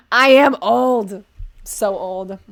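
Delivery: mock lament. Mock complaint about own age.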